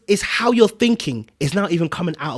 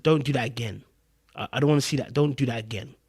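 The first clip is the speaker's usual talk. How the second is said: low, softer, contained telling-off; quiet firm warning; 4 semitones lower, 6 dB quieter, faster than usual. Retold or imitated. Man recounting his call telling her not to repeat it, quietly firm.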